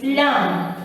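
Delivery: "lamb" ending on M, with no B sound; silent B demo. Shown as a demonstration. Teacher showing how to read the word, silent B in "lamb". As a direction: say "lamb" and stop on the closed-lip M. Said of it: "you will read the word like this".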